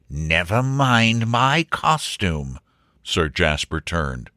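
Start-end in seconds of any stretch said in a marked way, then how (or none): 0.1-2.6 slow, drawn-out blustering voice; indignant baronet. Acted. Sir Jasper dismisses talk of his costume, slow and indignant. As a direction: draw it out with lordly indignation. Baronet snaps back at Wilfred.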